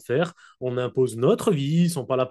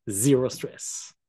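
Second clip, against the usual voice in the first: slow, jokey "Zéro stress" with the "zé" sounded "zi" in an English-German accent; slogan in a comic English-German accent; mock English-German accent; much slower than usual. Shown as a demonstration. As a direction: say it like a joking German tourist. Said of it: "Avec mon accent anglais allemand".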